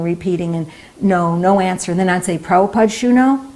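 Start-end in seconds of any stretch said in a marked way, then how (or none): 2.4-3.5 speaking Bengali. Retold or imitated. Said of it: "That's broken Bengali".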